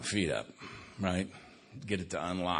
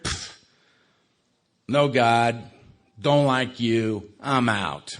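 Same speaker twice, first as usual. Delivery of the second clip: louder, bitter renouncing of God; defiant anger; 4 dB louder than usual. Retold or imitated. Survivor telling God off after the crash, defiant and angry. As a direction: spit it out at the sky, done with him.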